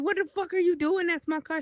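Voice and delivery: high mock-outraged yelling; retold alarmed protest. Retold man protesting over his car.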